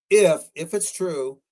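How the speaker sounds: "If" said loud and held, then repeated; stress on "If". Real, not acted. Researcher cautioning listeners about an unproven theory, stress on "If". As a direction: lean hard on the first "If". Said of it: "I'm stressing the word if".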